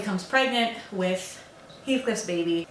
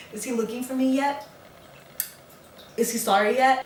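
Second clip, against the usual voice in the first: higher-pitched, mock-hopeful questions; needy asking; 5 semitones higher than usual. Wife locked in room checking on husband, needy asking. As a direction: ask it high, with a pause between. Peeking out during a tantrum.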